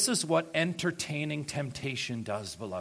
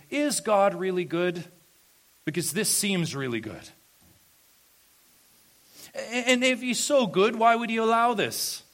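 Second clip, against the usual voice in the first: a hint of a doubting inner voice, rising higher; voice of temptation; 6 semitones higher, 4 dB louder than usual. Temptation whispers doubt to the believer, mildly acted. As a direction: sow doubt, voice climbing on the last question. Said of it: "It says this".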